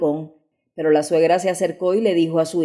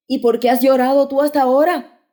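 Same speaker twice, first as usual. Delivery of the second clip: tearful; 6 semitones higher, 3 dB louder than usual. A narrator's reading. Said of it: "le dijo ella con lágrimas en los ojos".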